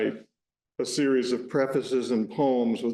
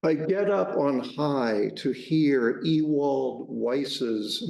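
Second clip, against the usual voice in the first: slow, measured essay reading; literary reading. Acted. Author reading the preface of an essay to the audience, measured literary reading. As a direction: read it aloud slowly, phrase by phrase. Reads own essay aloud.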